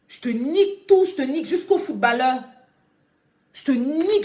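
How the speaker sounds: furious outburst at a troll on the live stream; angry threat. Real, not acted. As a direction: bark the threat at the viewer.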